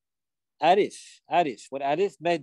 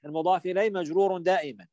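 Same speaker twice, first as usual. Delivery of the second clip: quick rule repeated; faster than usual. Shown as a demonstration. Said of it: "صح؟".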